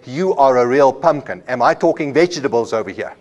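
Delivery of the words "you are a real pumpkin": mock exasperation. Shown as a demonstration. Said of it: "And I say".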